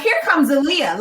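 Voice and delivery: high, loud imitation of fans cheering; excited crowd cheer. Fans spotting their runner in the race, imitated excited cheer. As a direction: call out like an amped-up spectator.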